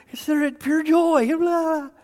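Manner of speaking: high, loud and flippant; dismissive mock. Pastor mocks people brushing off the verse. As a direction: toss it off like a cliché.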